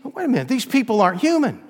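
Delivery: high, loud, frantic begging; panicked plea. Acted. Accused begs the judge for an attorney, high and frantic. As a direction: cry out as if cornered by demons.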